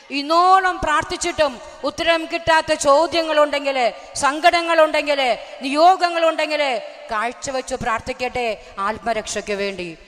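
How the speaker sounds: loud, rousing sermon call; fervent preaching. Acted. Preacher urges believers to pray for God's kingdom, loud and fervent. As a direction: preach it out to the whole hall.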